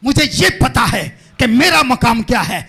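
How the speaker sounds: firm, forceful declaration; emphatic preaching. Real, not acted. Preacher declaring his calling and mission, emphatic preaching. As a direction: hammer out each clause for the congregation.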